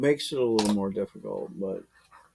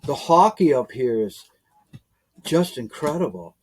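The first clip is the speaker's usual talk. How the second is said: Canadian accent; 4 dB louder than usual. Shown as a demonstration. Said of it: "they say hockey".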